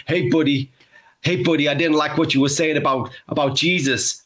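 put-on Texan accent with a Newcastle lilt; botched Texan accent. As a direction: attempt a Texan hillbilly, land nearer Newcastle. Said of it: "your Texans sound like they're from Newcastle".

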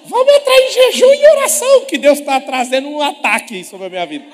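voz muito aguda gritada, rindo; imitação caricata. Retold or imitated. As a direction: guinche como um fiel desesperado. Imitates panicked fiancé to pastor. (noivo apavorado pede jejum ao pastor, voz aguda e gritada)

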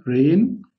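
rain with an untrilled English R; English R again. Shown as a demonstration. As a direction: model the English R. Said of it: "تاني، مرة تانية".

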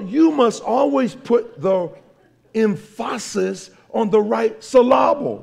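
"emphasis" as em-FASS-is, "syllable" as suh-LAB-ul; loud, slow, deliberately misstressed "emphasis" and "syllable"; wrong-syllable stress joke. Shown as a demonstration.

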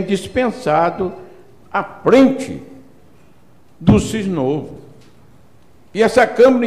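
high-pitched, emphatic council speech; emphatic oratory. Real, not acted. Councillor praising a letter of thanks to colleagues, emphatic oratory. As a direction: pitch it up and declaim in separated phrases.

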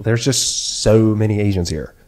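imitated offhand remark, slow; casual normal voice. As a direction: draw it out matter-of-factly, no whispering. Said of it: "Just like that. Just like that".

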